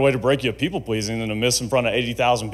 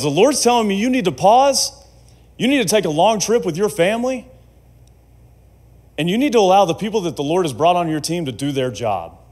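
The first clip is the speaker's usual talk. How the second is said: insistent pronouncement; 6 semitones higher than usual. Retold or imitated. Acts out prophetic man's pronouncement.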